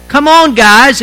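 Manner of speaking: imitated call to urge them on; rallying cry. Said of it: "It was just a rallying cry".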